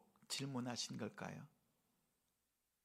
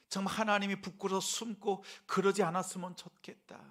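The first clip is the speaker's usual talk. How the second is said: raised, earnest voice of tender concern; worried, caring; 5 semitones higher, 5 dB louder than usual. Retold or imitated. Preacher voices God checking on fallen Adam, worried and caring. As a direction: plead with concern, pausing between questions. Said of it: "하나님이 걱정스러운 마음으로요".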